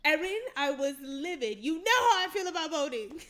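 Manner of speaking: imitating livid friend. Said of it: "And you were like".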